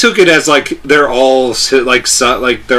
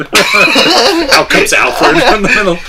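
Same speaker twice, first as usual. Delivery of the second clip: put-on English accent; 7 semitones higher, much slower than usual. Mock British narration.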